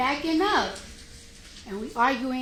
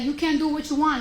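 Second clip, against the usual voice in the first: repeating it louder, a touch heated; retold argument; 4 semitones higher, 5 dB louder than usual. Answering the lawyer, replaying the heated argument. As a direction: say it like you're arguing again. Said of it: "I was like".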